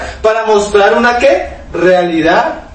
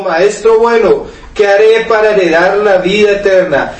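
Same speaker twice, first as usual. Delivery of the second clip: slow reading. Shown as a demonstration. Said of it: "mira las preguntas y la respuesta".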